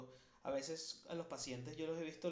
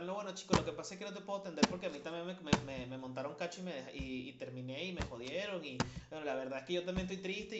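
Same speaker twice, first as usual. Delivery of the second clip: mock self-pitying confession; 3 semitones higher, 4 dB louder, faster than usual. Parodia del terapeuta que se desahoga.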